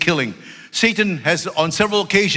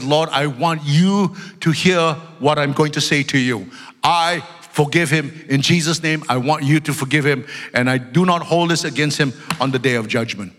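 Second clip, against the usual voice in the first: quiet prayer; 3 semitones lower than usual. Retold or imitated. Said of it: "I said to God".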